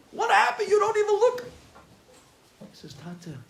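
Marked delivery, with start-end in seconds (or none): 0.1-1.4 high, loud cry of dismay; anguished lament. Retold or imitated. Father seeing his changed son, loud anguished cry. 2.9-3.4 very soft, halting apology; ashamed confession. Retold or imitated. Son admitting he skipped yeshiva, hushed ashamed apology.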